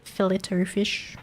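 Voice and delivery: slowly, fillet-o with a clear t; drawn-out fillet-o fish; slow Australian fillet-o. Shown as a demonstration. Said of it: "That's like saying water".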